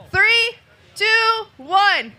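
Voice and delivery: announcer calling the crowd's cheer; calling out countdown. Real, not acted.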